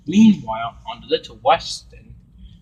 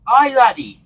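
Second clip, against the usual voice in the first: put-on Scottish accent; 11 semitones higher, 9 dB louder than usual. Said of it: "Donald Douglas are Scottish".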